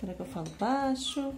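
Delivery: ordinary talk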